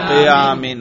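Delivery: "قیامین" ending clearly in -in; jarr ending. Shown as a demonstration. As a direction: say "قیامین" with a final "in" sound. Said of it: "اور جر پر تلفظ کریں". ("قیامین" جر کے ساتھ، آخر میں "اِن")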